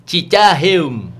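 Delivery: "Cicaheum" said slowly as "Cicahem" by a Batak tongue; Batak accent. Retold or imitated. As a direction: stumble over it like a Batak speaker. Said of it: "kalau orang Batak ... dengan lidahnya".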